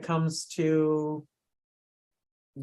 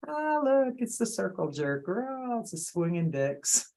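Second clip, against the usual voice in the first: mocking quote; 4 semitones higher, 3 dB quieter than usual. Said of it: "in joking, I have referred".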